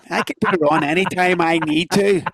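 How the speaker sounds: a light Belfast accent put on for show. Shown as a demonstration. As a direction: slip briefly into a mild Belfast accent, half joking. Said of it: "I'd start talking like this".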